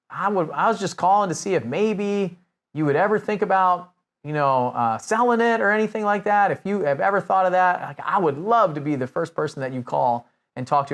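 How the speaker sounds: lightly voiced southern grandfather, at ease; comfortable grandfatherly caller. Older buyer asking a homeowner to call, grandfatherly and comfortable. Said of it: "so comfortable. It was like my".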